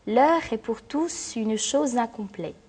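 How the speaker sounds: slow verse reading, final E sounded in "une"; verse scansion. Shown as a demonstration. Teacher illustrating the mute E rules with Hugo's line, slow scanned verse. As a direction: read slowly, voicing the E of "une", linking "chose" into "incomplète". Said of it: "le E du mot une se prononce".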